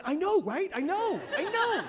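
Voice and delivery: high, laughing fake sympathy; mock agreeing. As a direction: humor her in a high, laughing voice. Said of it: "I'm like".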